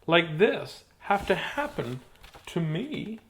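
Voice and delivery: lively storytelling with swooping pitch; expressive, bouncy rhyme reading; picture-book read-aloud. Acted.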